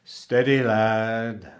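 hearty, loud calming words; steady the boy with a smile; reassuring, avuncular cook; kindly cook. A narrator's reading. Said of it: "said the cook with a kindly smile".

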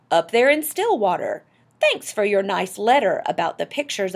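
Admiral Drake. A narrator's reading. Explorer greeting Mister Popper over radio, calling out. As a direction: project each phrase as if across a great distance. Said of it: "a faint voice floated out".

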